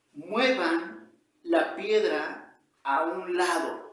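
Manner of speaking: slow, loud, deliberate order; stern angry command. Acted. Angry Jesus orders those at the tomb, stern slow command. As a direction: order them firmly, word by word, loud. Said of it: "Está enojado".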